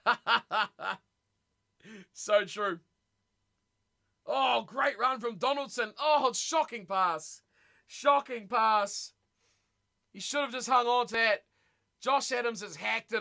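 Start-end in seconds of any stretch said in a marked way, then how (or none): 4.2-5.9 commentator's excited cry; excited shout. Real, not acted. Live commentary, big run. 6.0-9.1 slow, loud, dragged-out dismay; loud, slow exasperated call; dismayed groan. Real, not acted. Reacting to a bad pass.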